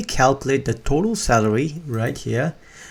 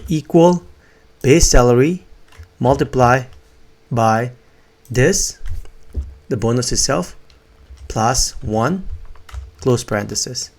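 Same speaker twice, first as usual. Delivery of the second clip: dictating; slower than usual. Shown as a demonstration. Dictating formula, slow with pauses.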